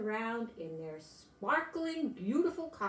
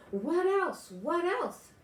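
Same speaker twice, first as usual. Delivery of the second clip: higher, louder pleading, twice; eager begging; 8 semitones higher, 5 dB louder, slower than usual. A narrator's reading. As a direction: beg like an excited little boy. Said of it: "he begged".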